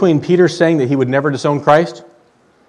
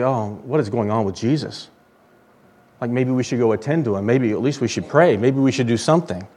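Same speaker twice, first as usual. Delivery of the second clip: soft worried disciples; 2 semitones lower, 5 dB quieter than usual. Retold or imitated. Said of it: "you would think that they would say".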